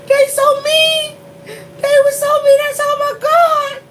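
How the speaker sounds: high, drawn-out, loud protest; slow, squealing exclamation of dismay; amused wailing. Real, not acted. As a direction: wail it out, half laughing. Wailing at cruelty while amused.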